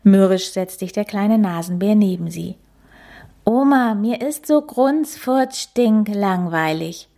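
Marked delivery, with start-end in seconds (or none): 3.4-7.1 high whiny wail; child begging. Acted. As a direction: wail it as pitifully as possible. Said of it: "jammert er so jämmerlich er kann".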